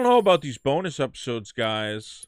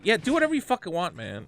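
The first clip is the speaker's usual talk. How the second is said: retold snap; 5 semitones higher than usual. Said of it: "And I said".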